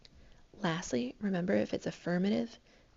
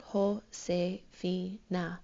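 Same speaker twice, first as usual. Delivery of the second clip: Josefina with the stress on FI; slow and careful, Jo-se-FI-na; stress on the second to last syllable; much slower than usual. Shown as a demonstration. Teacher to class, showing the natural emphasis slowly. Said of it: "this will be our natural emphasis".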